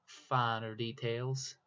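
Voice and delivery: slow Southern drawl on the words; slow, drawn-out put-on Southern accent. Artist at the drawing tablet slips into a slow Southern accent. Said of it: "I'm going southern on y'all".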